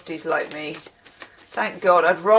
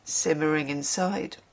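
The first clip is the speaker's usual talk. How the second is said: story reading. Acted. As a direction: savour each phrase as you read aloud. Reads a passage aloud.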